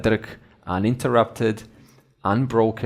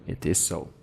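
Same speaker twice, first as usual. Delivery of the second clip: quiet; 7 semitones lower, 9 dB quieter than usual. Acted. Awareness answering the mind.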